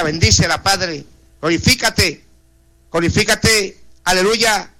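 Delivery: earnest pleading prayer, voice rising and falling; fervent prayer. Acted. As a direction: intercede for each name before God. Radio prayer intercession. (oración ferviente e implorante)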